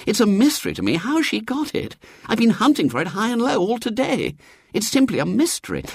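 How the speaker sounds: high-pitched, plaintive excuse; miserable. A narrator's reading. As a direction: plead bafflement in a high, woeful voice. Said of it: "said Robert miserably".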